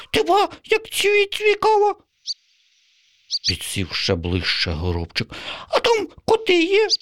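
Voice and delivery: very high, eager sparrow squeak; little sparrow hooked on the story; curious sparrow. Acted. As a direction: lean in with wide-eyed curiosity. Sparrow character voice.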